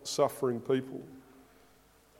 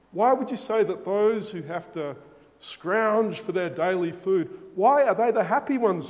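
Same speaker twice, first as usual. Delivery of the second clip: pleading protest; 3 dB louder than usual. Retold or imitated. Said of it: "we are screaming out inside".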